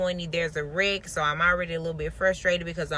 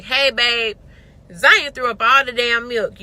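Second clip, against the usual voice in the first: panicked call; 3 semitones higher, 6 dB louder than usual. Retold or imitated.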